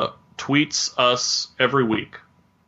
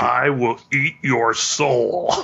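slow, menacing creepy voice; creepy stalker voice; much slower than usual. Pretend. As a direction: savor each word, menacing. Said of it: "Wow, creepy Jerry".

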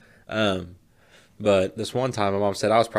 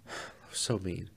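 whiny hurt; 14 dB quieter, slower than usual. Retold or imitated. Girlfriend voiced, hurt.

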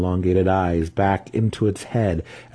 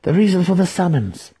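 loud pronouncement; 11 semitones higher, 5 dB louder than usual. A narrator's reading. Handmaiden's answer in the ritual.

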